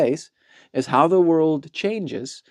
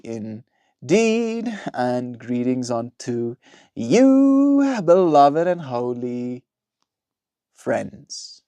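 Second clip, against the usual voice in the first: grand greeting; much slower than usual. Pretend. Mock-grand greeting to stream.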